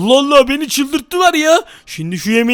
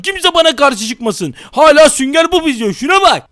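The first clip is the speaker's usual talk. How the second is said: angry act. Acted. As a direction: rage at the kids over the TV. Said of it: "sinirli taklidine geçelim". (abartılı öfke)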